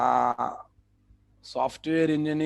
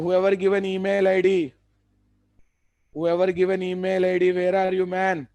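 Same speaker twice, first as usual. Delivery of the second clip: raised, calling out to the class; calling out loudly; 4 semitones higher, 5 dB louder than usual. Real, not acted. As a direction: call out to find the student. Teacher calling out to students.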